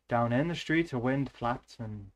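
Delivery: put-on Welsh accent slipping into Irish; Irish-tinged stab at a Welsh accent; attempted Welsh accent. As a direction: try Welsh, let it come out Irish. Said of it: "I've still got the Irish thing".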